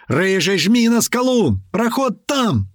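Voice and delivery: high, urgent insistent shout. A narrator's reading. Navigator urging the driver at the rock, shouting. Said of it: "тут же закричал Гера".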